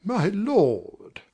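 a butler shocked to the core; scandalized. Acted.

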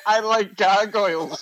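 "gargoyles" said in place of bagels, ending in "oils"; imitated mispronunciation. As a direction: mimic the garbled word as "gargoyles", amused. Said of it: "And you go".

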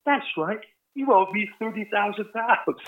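high, shouted mock demand for money; imitating Branson. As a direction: Branson teasingly demanding his money back. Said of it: "He goes".

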